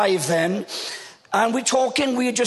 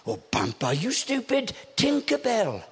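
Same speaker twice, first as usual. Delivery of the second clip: put-on child's voice; 5 dB quieter than usual. Child scolding grandfather sweetly.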